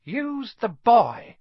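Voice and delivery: a hissing otherworldly master; eerie slow command from within Quirrell; Voldemort's voice. A narrator's reading. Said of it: "a voice answered".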